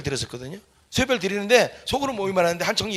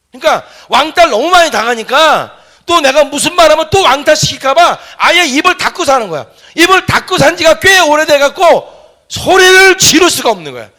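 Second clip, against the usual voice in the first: impassioned; 11 semitones higher, 12 dB louder than usual. Real, not acted. Passionate retelling of boy's pain.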